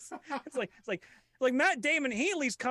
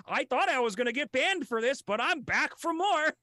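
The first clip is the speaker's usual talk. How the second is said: Ricky Gervais impression; 6 semitones higher than usual. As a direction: gloat at the crowd. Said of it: "come back to the Oscars and say".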